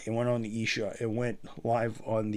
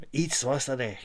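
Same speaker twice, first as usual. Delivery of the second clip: put-on Scottish accent; 4 semitones higher, 3 dB louder, slower than usual. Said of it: "the Scottish".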